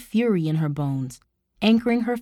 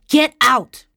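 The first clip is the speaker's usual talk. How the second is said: high, explosive yell; furious shout; 5 semitones higher, 9 dB louder than usual. A narrator's reading. Tara drives her uncle out, furious shout. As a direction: cut in with an all-out shout.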